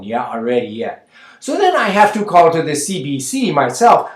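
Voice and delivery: put-on a chatty Manitoba Mennonite auntie accent, ending lines on "yeah?"; Tina's Mennonite accent. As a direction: Mennonite accent, gossipy and rambling. Comic Mennonite caller monologue.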